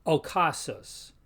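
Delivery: ocasus with a hard K sound. Shown as a demonstration. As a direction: say ocasus as "o-kah-soos". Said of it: "usually sounds like two K's".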